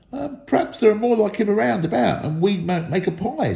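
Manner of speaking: troll Bert musing. A narrator's reading. Bert voiced by narrator.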